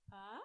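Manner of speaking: a scream attempt that comes out as a soft, tiny ah; failed scream. Shown as a demonstration. Mom showing listeners her lost screaming voice, a faint failed scream. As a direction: try to scream and have almost nothing come out. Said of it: "So I can go like".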